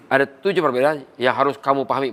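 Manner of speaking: trainer showing the wrong way, instructing "kamu" from above; plain, brisk instruction aimed at KAMU; lecturing. Shown as a demonstration. Trainer demonstrates how not to address partners, lecturing. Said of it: "bukan begitu".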